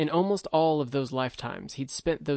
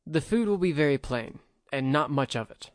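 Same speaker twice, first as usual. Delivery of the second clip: grudging; 2 semitones higher than usual. Acted. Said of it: "Sato said grudgingly".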